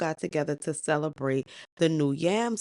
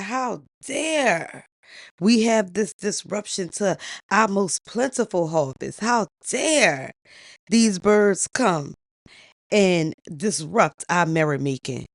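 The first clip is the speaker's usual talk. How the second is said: upset king; 3 semitones higher, 4 dB louder than usual. Acted. King protesting birds disrupting the harvest festival, upset. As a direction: play an outraged king, voice raised. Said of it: "he is upset".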